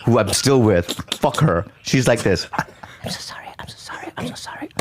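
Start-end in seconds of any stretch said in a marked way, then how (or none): 2.5-4.7 breathy unvoiced whisper of apology; hushed repeated apology whisper. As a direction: whisper it over and over, pleading. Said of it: "She's whispering that".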